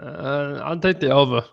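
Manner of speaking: a weak attempt at a radio host voice; Francesa impression. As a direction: lightly imitate a sports radio host. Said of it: "I can't do Francesa".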